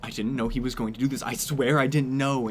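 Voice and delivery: fast, frantic pleading; a frantic woman swearing her innocence, fast. Acted. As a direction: rush the words out in a panic. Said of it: "She is frantic".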